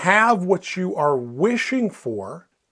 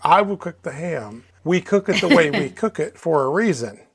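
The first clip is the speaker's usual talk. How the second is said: indignant wife. Retold or imitated. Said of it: "she's quite defensive, just absolutely indignant".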